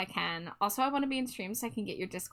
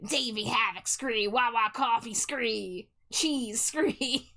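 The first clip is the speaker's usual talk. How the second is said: silly listing impression; slower than usual. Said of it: "just going like".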